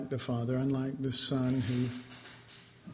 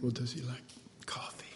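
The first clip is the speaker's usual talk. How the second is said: whispered thought; 7 dB quieter, faster than usual. Retold or imitated. Bride's imagined thought.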